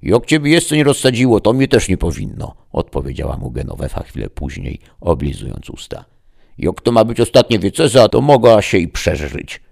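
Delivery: put-on high, loud cheeky old woman; cheeky granny. A narrator's reading. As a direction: snap back like a sharp old grandma. Grandma retorts cheekily. (zadziornie, głosem babci)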